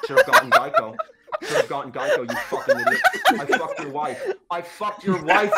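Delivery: very high mocking shriek through laughter; shrieking tape taunt. Cursed tape shrieking at a crash victim, high laughing mock yell. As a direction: squeal the taunts, barely holding in a laugh. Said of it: "asked to put the tape in".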